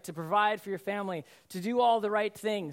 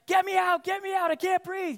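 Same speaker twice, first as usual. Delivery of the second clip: high, panicked retold shout; panicking; 10 semitones higher, 4 dB louder than usual. Buried man to his rescuer, panicking shout. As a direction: cry out as if trapped and suffocating. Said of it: "he's panicking at this point".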